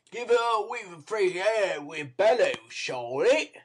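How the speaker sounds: a lightly voiced street boy giving orders; hissed. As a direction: hurry them along. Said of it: "hissed Dawkins".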